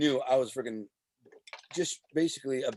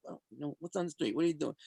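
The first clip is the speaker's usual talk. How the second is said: hushed, much softer imitation; whisper; 8 dB quieter, faster than usual. Mobster quietly asking Alonzo about the street, mock whisper. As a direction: lean in, mimic a confidential murmur. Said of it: "they'd come over and whisper".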